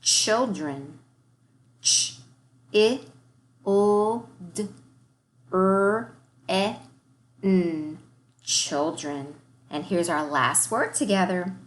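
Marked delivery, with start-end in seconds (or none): 1.8-8.0 "Feeling" split into single sounds, with "ing" as "I" then "ng"; segmented sounds. Shown as a demonstration. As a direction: sound out "Feeling" one sound at a time. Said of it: "start our warm-up by segmenting".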